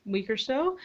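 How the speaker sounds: breathless after being outside; winded, catching breath. Real, not acted. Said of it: "Sorry, I'm out of breath".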